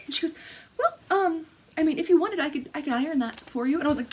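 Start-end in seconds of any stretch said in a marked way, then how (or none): 0.8-3.8 high-pitched, hesitant passive-aggressive offer; passive-aggressive mom. Retold or imitated. Mom offering to iron her fabric, passive-aggressive imitation. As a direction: imitate a mother hinting with fake helpfulness. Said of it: "she says it just like that".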